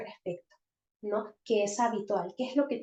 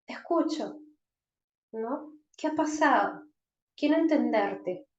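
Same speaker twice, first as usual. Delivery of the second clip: caring parent. Shown as a demonstration.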